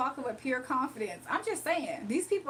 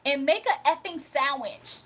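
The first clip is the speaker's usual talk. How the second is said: mock crash out; 4 dB louder than usual. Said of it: "Dimitri crashing out".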